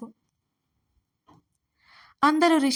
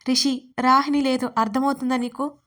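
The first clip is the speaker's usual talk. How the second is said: shouting; 3 dB louder than usual. Acted. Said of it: "Sonali గట్టిగా అరిచింది".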